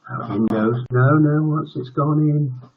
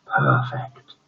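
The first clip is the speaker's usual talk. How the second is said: villainous gloat; 9 semitones lower than usual. Acted.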